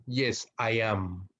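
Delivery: very slow, careful short answers; teacher demonstrating full short answers; slow model answer. Shown as a demonstration. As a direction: spell the answer out slowly for students. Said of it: "Fíjense la diferencia".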